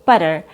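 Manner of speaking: butter with the t tapped; quick d in the middle of butter; fast D sound. Shown as a demonstration. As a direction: say "butter" like budder. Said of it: "is a fast D sound".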